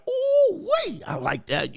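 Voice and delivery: high whooped "ooh", then settling into approval; mock excitement. Man admiring a woman in her shirt, eager whoop. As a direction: whoop it first, then relish it. Eager reaction to what he sees.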